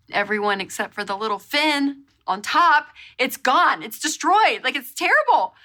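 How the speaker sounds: building dismay; distraught rising. Retold or imitated. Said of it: "And I was like".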